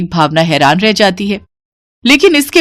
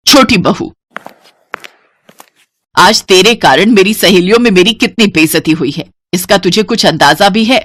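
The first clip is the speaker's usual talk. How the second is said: shouting. Acted. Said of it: "जोर से चिल्लाते हुए कहती है".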